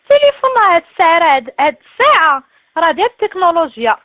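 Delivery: fast, loud exasperated rant; yelling fast in frustration; shouting. Real, not acted. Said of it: "مالك، مالك كتغوتي؟".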